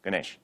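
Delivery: Ganesh with final a dropped and short e. Shown as a demonstration. Teacher showing what you don't say, short Ganesh. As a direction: say Ganesh quickly, ending on sh. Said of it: "you don't say".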